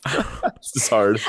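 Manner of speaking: tiny puckered mouth; sucked in cheeks. Shown as a demonstration. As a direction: talk through pursed lips. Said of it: "talk like this with a very small mouth".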